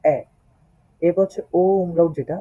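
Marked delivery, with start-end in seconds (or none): 0.0-0.2 এ drawn out; German ä. Shown as a demonstration. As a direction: hold the এ. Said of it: "এটাকে বলতে হবে এ".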